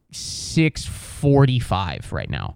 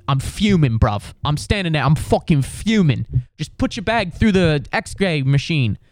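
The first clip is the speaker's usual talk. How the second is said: mock British bloke losing patience; British accent, fuming; 3 semitones higher than usual. Stuck behind a family with seventeen bags, fuming British accent. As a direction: borrow the irate British traveller's accent. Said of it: "you are hilarious to listen to when you're upset".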